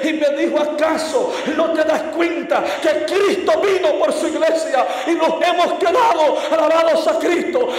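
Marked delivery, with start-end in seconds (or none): 0.6-6.4 powerful shout. Retold or imitated. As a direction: cry out the accusation with force. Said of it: "me respondió con una voz potente". (grito potente de una mujer desesperada)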